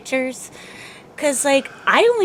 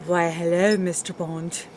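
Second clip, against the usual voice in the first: attempted Russian accent; 7 semitones lower, 10 dB quieter than usual. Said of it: "fake a Russian one".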